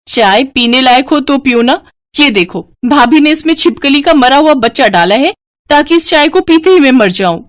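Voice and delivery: tattling to mother; accusing sister-in-law. Acted. (ननद का इल्ज़ाम)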